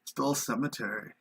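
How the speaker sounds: a hint of an emo kid, slow. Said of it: "Why did you say that all emo?".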